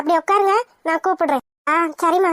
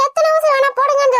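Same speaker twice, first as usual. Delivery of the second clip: higher-pitched echo of mother's words; mildly indignant mimicry, pitched up; indignant quoting back; 4 semitones higher than usual. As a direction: throw mother's words back at her in protest. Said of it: "நீங்க என்னன்னா ... சொல்ற".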